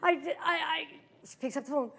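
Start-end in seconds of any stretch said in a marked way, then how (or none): 0.0-0.9 retold sobby protest; mock tearful voice. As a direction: imitate a crying woman stammering out her words. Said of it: "Starts crying. She goes".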